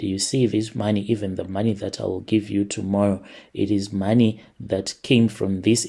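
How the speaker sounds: normal talking voice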